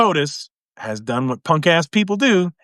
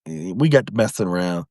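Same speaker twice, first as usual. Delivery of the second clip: low laid-back mock truce; 9 semitones lower than usual. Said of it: "They said".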